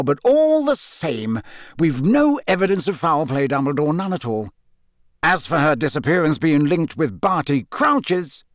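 a lightly voiced blustering minister; Fudge, the Minister. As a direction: insist he sees no link. Fudge continues arguing.

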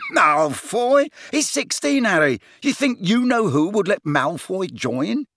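hooting, high-pitched ridicule; laughing disbelief. A narrator's reading. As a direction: scoff as if just erupting in laughter. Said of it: "Then Ron erupted in laughter".

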